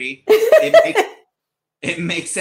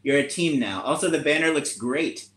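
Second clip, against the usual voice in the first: gracious cat counselor. Acted.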